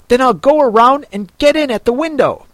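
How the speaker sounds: fast, busy, half to himself; Rabbit muttering to itself. A narrator's reading. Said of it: "the rabbit say to itself".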